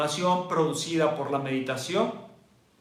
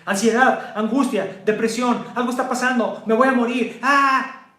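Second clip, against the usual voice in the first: rising, louder alarm building to a cry; mock panic; 5 semitones higher, 3 dB louder than usual. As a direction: act out a nervous system in panic. Imita el sistema nervioso alterado. (pánico fingido que sube)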